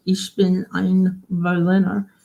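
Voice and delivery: put-on slow, careful German accent; deliberate attempt at a German accent. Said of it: "try to remember my German accent here".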